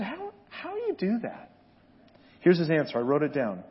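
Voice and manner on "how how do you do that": retold question. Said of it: "I said".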